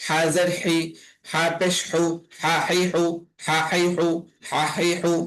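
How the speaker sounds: হা, হি, হু with h pressed in a tight throat; constricted Arabic h on হা হি হু; throat-squeezed h. Shown as a demonstration. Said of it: "গলা চেপে আদায় হয়".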